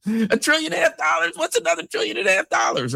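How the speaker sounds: mock incredulous. Mocking the huge sum.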